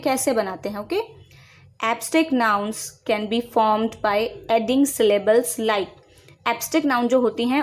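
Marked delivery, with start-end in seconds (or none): 1.8-5.9 each word spaced out for copying; slow dictation. Shown as a demonstration. Teacher to students, dictating the definition slowly. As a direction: read it slowly so students can write.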